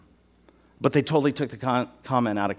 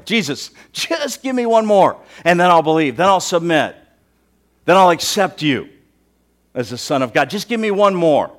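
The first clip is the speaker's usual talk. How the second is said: mock pleading; 4 semitones higher, 6 dB louder than usual. Mock bargaining with Jesus for miracles.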